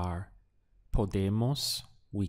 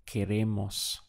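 syllable demo. Shown as a demonstration. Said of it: "Again, three syllables".

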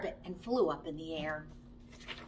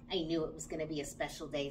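much softer, murmured to oneself; to himself; 7 semitones lower, 9 dB quieter, faster than usual. Acted. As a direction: say it quietly to yourself at bedtime. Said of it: "said Bramwell Brown to himself".

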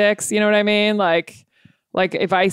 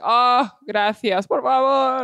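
slow, higher, gushing thanks; drawn-out grateful plea; grateful customer; 6 semitones higher, slower than usual. Retold or imitated. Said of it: "they're like".

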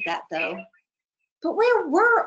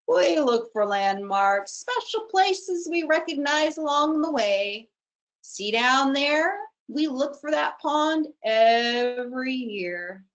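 slow crane voice; 4 semitones higher, slower than usual. Acted. Crane explains landmarks.

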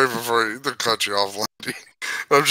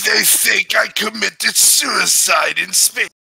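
slow, higher cartoon alien; Watto; 4 semitones higher than usual. Watto confiding his faked death, slow cartoon voice. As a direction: draw it out as an alien schemer. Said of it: "the Watto voice is very fun to do".

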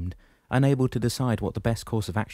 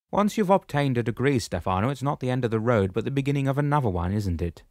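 higher, louder commanding shepherd voice; booming old shepherd, pitched up; 5 semitones higher, 4 dB louder than usual. Acted. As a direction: address him firmly from above. Damianos speaks.

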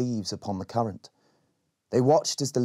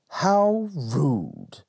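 offended lizard; 5 semitones higher than usual. Acted.

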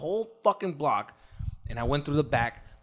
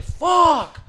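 high loud burst of a curse; exasperated curse; 14 semitones higher, 7 dB louder than usual. Retold or imitated. Kicked out of the club, loud shocked curse. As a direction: spit it out in shock. Reacting to being thrown out.

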